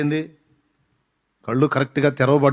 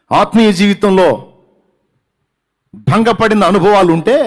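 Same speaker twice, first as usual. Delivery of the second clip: higher, louder pulpit cry; fervent preaching; 8 semitones higher, 6 dB louder than usual. Acted. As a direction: lift the phrase like a sermon climax. Preacher climax on spiritual failure.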